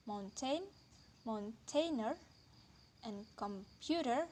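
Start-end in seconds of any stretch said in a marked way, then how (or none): 1.3-2.2 mountainer with the main stress on the final -EER; stress on suffix. Shown as a demonstration. Lecturer giving an example suffix, final stress on mountainer. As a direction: lean on the last syllable of mountainer. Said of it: "all take primary stress".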